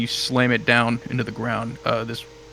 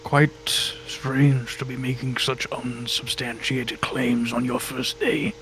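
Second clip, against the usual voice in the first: condescending god; 5 dB quieter than usual. Acted. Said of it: "He says".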